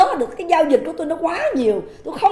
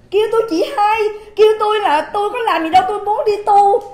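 higher mock pleading voice, calling her big sister; lightly put-on wheedling man's voice, higher; mocking his whiny tone; 5 semitones higher, 4 dB louder than usual. Mimicking the man's voice in the leaked call, mocking and higher. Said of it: "giọng điệu đó".

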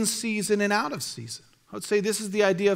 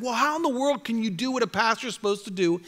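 retold challenge; 3 semitones higher than usual. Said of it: "And I said".

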